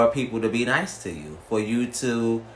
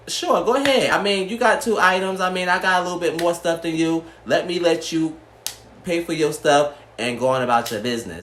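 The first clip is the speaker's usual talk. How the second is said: much higher, bright and obliging, a little faster at first; imitating a sweet reply; 5 semitones higher than usual. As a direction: sweetly play along as if happy to let her go first. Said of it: "I probably would have been like".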